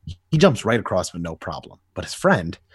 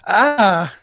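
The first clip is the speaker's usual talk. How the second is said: high, loud yelp of pain; a sharp cry as the blow lands; 10 semitones higher, 6 dB louder than usual. Acted. Joker crying out as Batman strikes.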